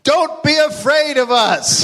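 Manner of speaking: "Don't be afraid of us" high and slowed, as a friendly crowd; mock crowd quote. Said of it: "people shouting such things as".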